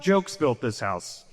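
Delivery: slow, weighty pronouncement; slow ghost declaration. Acted. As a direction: land each word slowly.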